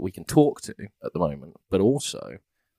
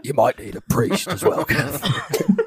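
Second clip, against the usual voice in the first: high character call; 11 semitones higher, much slower than usual. Acted.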